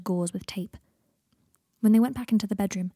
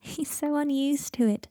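laughing; 7 semitones higher, slower than usual. Acted. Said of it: "holding her side".

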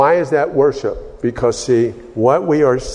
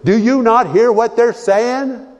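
high-pitched indignant challenge; indignant priest; 10 semitones higher than usual. Retold or imitated. Angry priest challenging over what people are saying, indignant. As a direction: demand it in a much higher voice. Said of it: "and the priest says".

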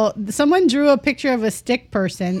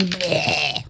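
disgusted bleh; 5 semitones lower, 6 dB quieter than usual. Retold or imitated. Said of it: "me going".

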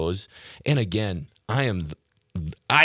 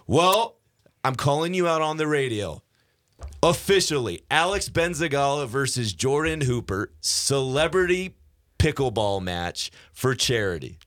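high-pitched, showy challenge announcement; raised, declaring voice for a public dare; official callout; 5 semitones higher than usual. Pretend. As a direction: announce the matchup like a fight promoter. Formal on-air callout of rival.

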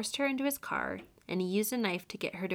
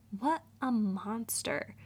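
whisper; 3 semitones higher, slower than usual. Real, not acted. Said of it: "whispered aside".

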